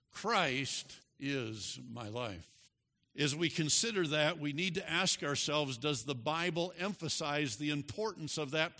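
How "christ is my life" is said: "Christ" set apart and weighted, then a low, slow rest; slow, with "Christ" as the key word; stress on Christ. Shown as a demonstration. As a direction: lean on the word "Christ", pause after it. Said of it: "emphasizing the word Christ".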